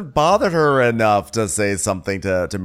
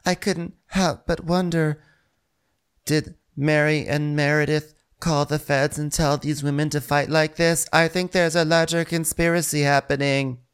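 mock pensive voice-over; 4 semitones higher than usual. Co-host wonders about conspiracy, mock-dramatic narration. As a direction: muse it like a TV columnist's voice-over.

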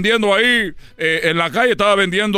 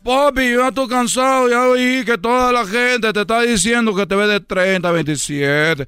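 put-on a touch of a child's whine; whiny tired kid; slower than usual. Son complains to his dad about walking, mildly whiny. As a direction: plead like a worn-out little boy.

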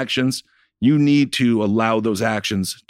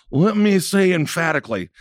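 higher-pitched, lightly voiced politician; a hint of strained officialese; mock emphatic politician; 5 semitones higher than usual. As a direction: imitate a politician's feeble attempt at emphasis. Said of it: "that's as emphatic as he can get".

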